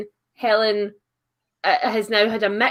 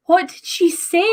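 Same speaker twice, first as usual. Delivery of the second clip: tag; 7 semitones higher than usual. Retold or imitated. Retelling friend baffled by Scottish accent.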